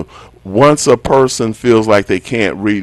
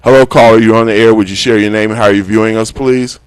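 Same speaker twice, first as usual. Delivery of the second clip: to someone hard of hearing; 2 semitones higher, 5 dB louder than usual. Real, not acted. Host greeting caller on air.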